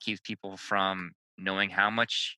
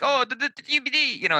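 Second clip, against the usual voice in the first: flustered stammer; 4 dB louder than usual. Retold or imitated. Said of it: "And I'm like".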